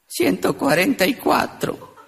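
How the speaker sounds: slow, lightly voiced weepy old man; mock-tearful elderly voice. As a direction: play a sniffling grandpa, drawn out. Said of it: "Otro viejito estaba llorando".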